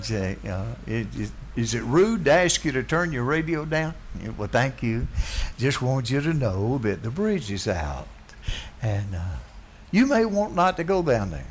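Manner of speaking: a hint of timid, overly polite softness. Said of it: "if the guy had said".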